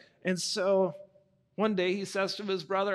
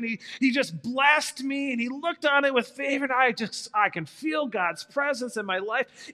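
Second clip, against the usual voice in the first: smug bragging; 4 semitones higher, 4 dB louder than usual. Acted. Abel bragging to his brother.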